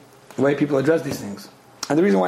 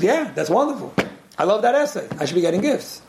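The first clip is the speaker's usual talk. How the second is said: higher, mock-delighted gushing; cynical imitation; 4 semitones higher than usual. Lady reacting to an essay on gifts, cynically mimicked delight. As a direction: imitate a self-interested fan with a cynical edge. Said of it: "sorry if I made it sound a little cynical".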